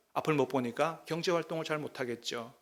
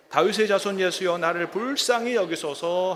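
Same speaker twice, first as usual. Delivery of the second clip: mild mock cry; 4 dB louder than usual. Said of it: "소리 질러 이르되".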